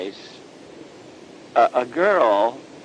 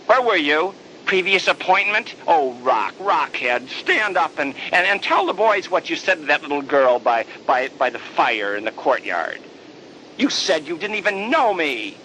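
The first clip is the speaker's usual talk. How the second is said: mock scolding; 2 semitones higher than usual. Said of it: "with my fragile conditional love".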